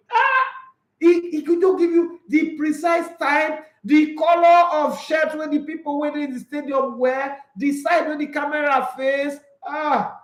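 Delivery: high, loud amazed outburst; excited shouting. Real, not acted. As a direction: rave about him in disbelief. Raving about friend's memory.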